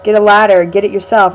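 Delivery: mock dismissive firemen. Imagined firemen answer a cat-in-tree call, mock dismissive. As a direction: imitate firemen loudly refusing to bother.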